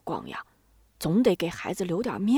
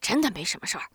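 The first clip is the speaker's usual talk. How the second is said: 略带不耐烦地敷衍; 轻微的厌烦，随口打发; 不耐烦; much faster than usual. A narrator's reading. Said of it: "佩金很不耐烦地说". (有点不耐烦)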